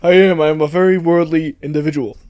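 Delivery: lightly voiced, self-assured politician; Bernie Sanders. Politician guest agrees with host's compliment, light impression. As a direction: affirm it briskly as the politician. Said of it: "Bernie, you sound very worldly".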